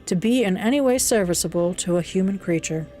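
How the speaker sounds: a hint of a gentle old host; kindly blind old man. Reader keeps old man's voice.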